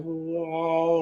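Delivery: drawn-out whoa as a humming noise; imitated weird noise. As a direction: imitate an eerie swelling sound. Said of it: "everything was going on, like".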